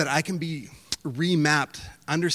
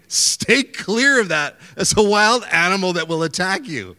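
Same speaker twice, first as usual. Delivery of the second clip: urgent Aussie local warning tourists off; Australian warning; 6 semitones higher, 7 dB louder than usual. Retold or imitated. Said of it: "an Australian's like".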